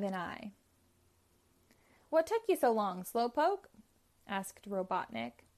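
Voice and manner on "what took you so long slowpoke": higher, mocking villain voice; taunting villain. A narrator's reading. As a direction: tease him as the sneering villain. Robotnik taunts Sonic.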